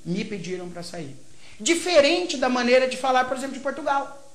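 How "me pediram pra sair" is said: Brazilian rhythm. Shown as a demonstration. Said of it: "é mais sonoro".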